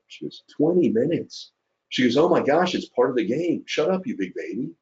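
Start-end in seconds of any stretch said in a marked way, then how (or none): 0.5-1.5 drawn-out, high-pitched mock exasperation; exasperated retort. Wife's pointed punchline, retold. 2.2-4.7 mock scolding. Wife scolds him, retold.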